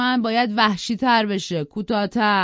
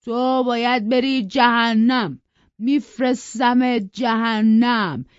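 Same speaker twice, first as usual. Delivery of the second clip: loud, raised raging threats; furious rant; 4 semitones higher, 6 dB louder than usual. Acted. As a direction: threaten them all in a drunken fury. Hindley forcing knife in mouth. (فریاد خشمگین پدر مست رو به همه)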